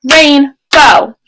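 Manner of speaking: "Rainbow" split into two clapped beats, RAIN then BOW; clapped syllables. Shown as a demonstration. Teacher claps out "Rainbow" for kids at home, syllable by syllable. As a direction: clap out "Rainbow" in two parts. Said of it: "Do this along with me".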